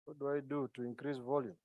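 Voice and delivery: very faint, muttered aside; nearly inaudible question; barely audible. Real, not acted. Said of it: "Not better".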